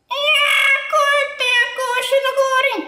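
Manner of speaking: put-on high, loud, insistent child's complaint. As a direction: insist loudly like a fed-up kid. Puppet repeats complaint louder.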